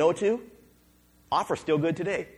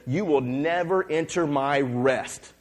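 stern verdict; slower than usual. Acted. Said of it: "he was so mad".

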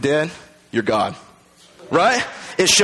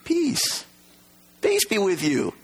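reassuring, higher and soft; gentle peace; 3 semitones higher, 4 dB quieter, slower than usual. Acted. Jesus greeting the fearful disciples, reassuring. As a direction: soothe the fear away. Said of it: "He says".

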